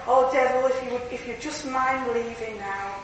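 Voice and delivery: mock meek request. Preacher mocking Christians who ask the devil nicely, meek. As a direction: parody a far too polite dismissal. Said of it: "If I took that attitude".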